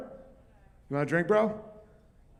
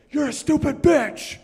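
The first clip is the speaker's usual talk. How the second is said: high, slow mocking yell of a meathead; angry yell; 10 semitones higher than usual. Meathead yelling at his girlfriend in public, mock angry yell. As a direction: bark it like a drunk bully.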